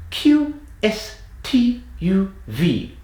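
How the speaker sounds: high, cliché British letters; stereotypical British accent. Shown as a demonstration. Accent coach demonstrates letters forward in the mouth, stereotypical British accent. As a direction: spit each letter out in exaggerated British. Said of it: "do these letters in a British accent".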